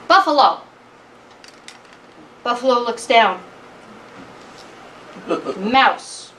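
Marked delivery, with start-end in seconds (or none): 0.1-0.6 louder, higher insistent call. Acted. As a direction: call firmly for attention. Mouse calls the buffalo again.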